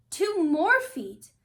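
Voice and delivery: loud, slow, stretched; dramatic exclaim. A narrator's reading. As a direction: let the shock land. Shrinking worsens, dramatic exclaim.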